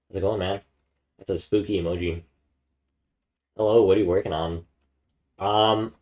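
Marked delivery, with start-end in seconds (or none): 3.6-6.0 talking while chewing candy; words round a mouthful of Twizzlers; mouth full. Real, not acted. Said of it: "I got some Twizzlers in my mouth".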